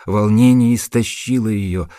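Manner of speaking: usual speaking voice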